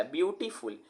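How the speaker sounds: "ब्यूटीफुल" in three beats, ब्यू-टी-फुल; teacher's syllable split of "ब्यूटीफुल"; broken into syllables. Shown as a demonstration. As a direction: separate each syllable of "ब्यूटीफुल". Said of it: "ब्यू आया, टी आया, फुल आया".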